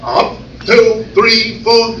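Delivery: clipped, stiff cadence; stiff Air Force count. Shown as a demonstration. Comic demoing the Air Force drill, stiff count. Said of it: "In the Air Force".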